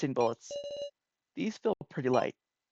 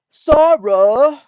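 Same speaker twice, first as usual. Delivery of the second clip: shouting a name; 12 semitones higher, 17 dB louder than usual. Pretend. Calling out a character's name.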